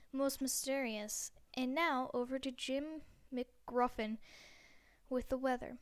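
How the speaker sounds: lightly put-on evening news read; newscaster voice. TV anchor reading the last news story, mock news voice. Newscaster hands over to weather.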